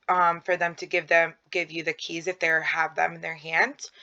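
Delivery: normal talking voice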